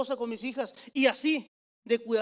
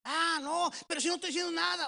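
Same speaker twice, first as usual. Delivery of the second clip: high-pitched, hurried protest; acting out his own defensive denial; defensive reaction; 6 semitones higher than usual. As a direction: protest innocence, quick and high. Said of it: "reacciono de esta manera".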